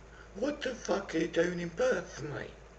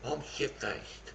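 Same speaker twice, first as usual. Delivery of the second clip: put-on slurred drunk; 3 semitones lower, 7 dB quieter, much slower than usual. Drunk caller admits being wasted.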